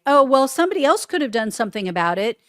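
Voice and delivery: fast, dismissive mock whine; mocking excuse. Mimicking Acosta's attorney shifting blame, fast mocking excuse. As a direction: rattle it off like a lame excuse.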